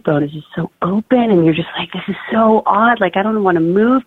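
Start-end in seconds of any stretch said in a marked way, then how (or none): 1.9-4.0 higher-pitched, lightly acted unease; retold discomfort. Mother recalls an odd feeling in labour, mildly uneasy. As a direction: replay the bewildered reluctance in a higher voice.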